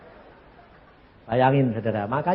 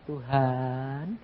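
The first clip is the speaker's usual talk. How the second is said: complaining prayer. Retold or imitated. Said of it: "Dia bilang".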